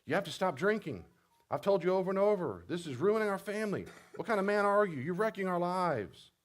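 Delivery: high, loud scolding yell; critical parent. Retold or imitated. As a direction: berate the spouse like a parent. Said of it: "you became their parent, you said this".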